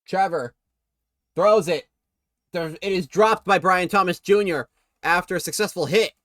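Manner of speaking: lively football commentary; live play-by-play. Real, not acted. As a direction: call the play as it happens. Calls the game live.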